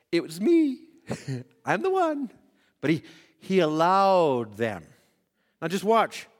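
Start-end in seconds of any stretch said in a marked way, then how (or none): 0.1-4.6 laughing. Retold or imitated. Imagining Jesus revealing himself.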